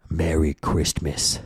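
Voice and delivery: "Merry Christmas" said slowly and stiffly, each word set apart. Retold or imitated. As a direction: drag out "Merry Christmas" like an imitated annoying coworker. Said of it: "they say it like that".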